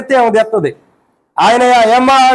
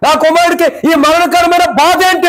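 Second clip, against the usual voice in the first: grieving father; 6 semitones higher than usual. Acted. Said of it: "అని తండ్రిలో వేదన ఉంది".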